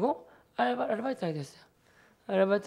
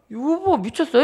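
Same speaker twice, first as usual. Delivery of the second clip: raised, high-pitched mock outrage of a wife; acted wifely disbelief, pitched up and loud; indignant scolding; 6 semitones higher, 5 dB louder than usual. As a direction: imitate a wife loudly telling off her husband. Sister scolds her husband's decision.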